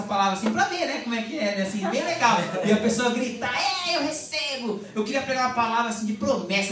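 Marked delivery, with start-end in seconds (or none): 3.5-4.8 drawn-out, altered "eu recebo"; slow mock worshipper. Mimicking a worshipper receiving the word, slow. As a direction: ham up the ecstatic believer, slowly.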